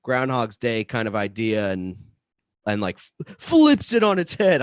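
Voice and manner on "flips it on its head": dramatic trailer announcer delivery; movie trailer voice. Real, not acted. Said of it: "I sound like a movie trailer".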